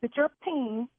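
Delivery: high, incredulous angry outburst; real fury at a bad caterer; outraged disbelief. Real, not acted. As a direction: she can't believe what she's hearing. Furious victim of prank call.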